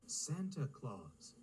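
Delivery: slow, deliberate correction; correcting. Acted. Pug correcting Ginty's joke, slowly. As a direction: set him right, word by word. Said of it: "Pug corrected".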